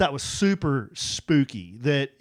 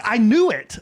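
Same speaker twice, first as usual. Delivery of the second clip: retold vindicated outburst; 7 semitones higher, 5 dB louder than usual. Retold triumphant reaction to chatbot.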